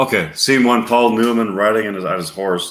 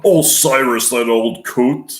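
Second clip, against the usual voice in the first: angry; 3 semitones higher, 4 dB louder, slower than usual. Retold or imitated. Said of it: "is angry".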